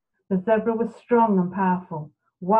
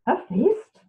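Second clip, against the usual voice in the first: sly, cool big cat voice; cool jaguar; 6 semitones higher than usual. Acted. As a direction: purr it out like a hungry jaguar. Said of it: "the jaguar coolly commented".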